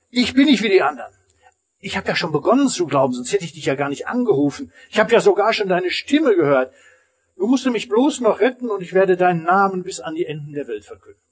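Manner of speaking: fast, hopeful begging; the man pleads eagerly, fast, with God; eager pleading. Acted. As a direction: rush the words out to win him over.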